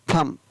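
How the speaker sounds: थम said with no b sound; थम, the b of thumb dropped; silent b. Shown as a demonstration. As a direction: say थम ending on m, b silent. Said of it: "तो यहाँ पर इसको क्या पढ़ेंगे".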